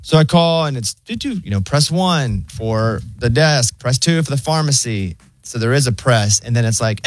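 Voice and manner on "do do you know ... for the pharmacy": robot phone menu. Retold or imitated.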